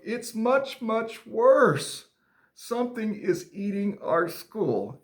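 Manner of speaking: high, dramatic storybook alarm; frightened. Acted. Timmy telling friend about the school, acted fright. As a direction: break terrible news to a friend. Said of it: "he said with a frightened look".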